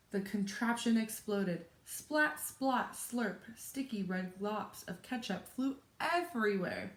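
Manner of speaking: lively, expressive picture-book read-aloud; story narration. A narrator's reading. Teacher reads a chapter book to children, animated story narration. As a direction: read it to children with dramatic pauses.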